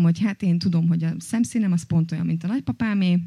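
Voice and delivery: ordinary delivery, nothing marked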